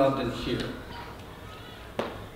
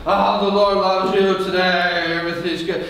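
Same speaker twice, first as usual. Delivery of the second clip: fake cheerful. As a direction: parody a teacher faking joy. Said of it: "it's like that".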